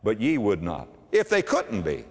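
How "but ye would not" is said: quoted lament. Retold or imitated. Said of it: "when he said".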